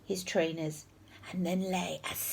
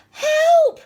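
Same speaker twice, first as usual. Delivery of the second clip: high, piercing cry for help; frantic shout; 13 dB louder than usual. A narrator's reading. Horrid Henry faking an emergency for his teacher, frantic shout. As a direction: yell it out in panic. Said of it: "shouted Horrid Henry".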